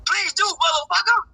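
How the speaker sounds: comic Pryor-style sass with a big rise on do; Richard Pryor impression. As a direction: do it like Richard Pryor doing a sassy comeback. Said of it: "That's in my Richard Pryor voice".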